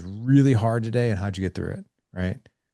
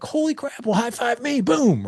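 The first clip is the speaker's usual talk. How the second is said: much higher mock-excited cheer; excited dad. Dad cheering his son's PE story, high and hammed-up. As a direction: hype him up like a buddy. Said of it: "I'm like".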